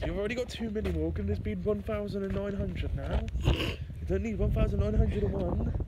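put-on posh scolding; posh accent. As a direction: tell him off in posh voice. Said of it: "stop trying to make an accent".

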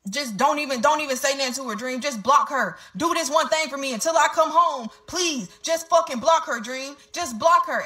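mildly worked-up imitation of begging; retold frantic pleading. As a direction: plead insistently, as if retelling his panic. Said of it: "he was flipping out".

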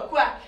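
loud, punchy duck quacking; duck quacks. Pretend. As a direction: quack out loud to get the kids quacking along. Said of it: "Quack it out".

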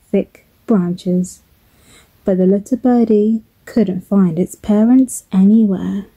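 gentle lilting storybook narration; measured storyteller with expressive emphasis; children's storytelling. Acted. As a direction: tell it to little ones, phrase by phrase.

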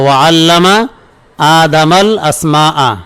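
slow, broken-up repetition for students; slow repeat. Shown as a demonstration. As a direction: split into two parts with a pause between. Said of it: "কি বলে এলো?".

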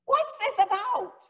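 high, sharp indignant question; indignant Jonah. Acted. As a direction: play Jonah fed up and demanding an answer. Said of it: "And Jonah is mad again".

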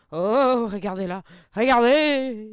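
loud, urgent look-at-that cry; sudden loud alarm to viewers; excited shout. Real, not acted. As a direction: point it out, thrilled. Spotting the waiting enemy.

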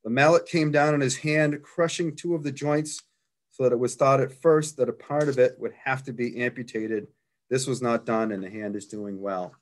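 measured read-aloud of a written account, easing down at the close; reading a quoted report to an audience. Real, not acted. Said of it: "I'll just read the account".

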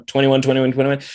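quick repeated auction call; auctioneer voice. Retold or imitated. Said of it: "auctioneer voice".

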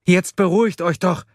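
high, loud call for calm; exasperated shout. A narrator's reading. Man ordering panicked friends to calm down, shouting. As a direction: shout them down impatiently. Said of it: "rief Erik".

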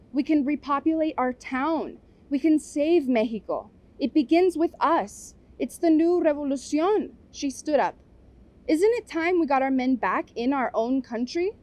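campaign speech. Acted. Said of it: "slipping into Aunt Irma campaign mode".

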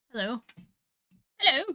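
a lightly put-on character greeting; David's Mordau character. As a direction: say hello in a silly character voice. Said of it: "Sound like David's Mordau character now".

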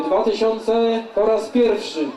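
slow, drawn-out auction call; auctioneer. Acted. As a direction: call the bid out slowly.

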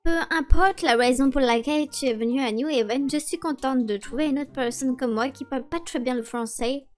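put-on French spoken with a mild American accent; Emily's lightly put-on American accent in French. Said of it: "avec votre accent ridicule".

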